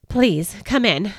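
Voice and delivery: slow, moved, a touch of a quaver. Acted. Joseph inviting the shepherds in, slow and mildly moved. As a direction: let emotion catch lightly. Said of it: "in a quavering voice".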